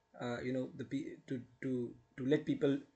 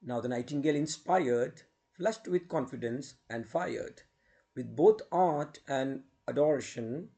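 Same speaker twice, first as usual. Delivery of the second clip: measured verse with swooping pitch and pauses; poem recitation. Acted. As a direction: recite a ballad to students, stressing the rhymes.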